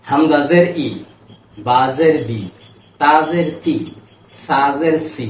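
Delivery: "হামজা জের ই" spelled out syllable by syllable, each final "ই" sound held clear; teacher recites each letter with its kasra, then the resulting "ই" sound; reciting letter drills. Shown as a demonstration. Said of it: "আমি একবার বলে দিই".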